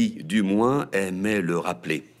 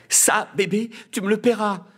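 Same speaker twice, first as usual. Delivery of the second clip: murmured threat; 13 semitones higher, 4 dB louder than usual. A narrator's reading. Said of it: "murmura Magnolia".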